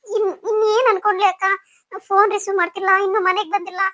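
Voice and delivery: stumbling, tearful plea; crying, anxious and helpless; tearful worry. Acted. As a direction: fret through tears to an older sister. Worried wife crying over missing husband.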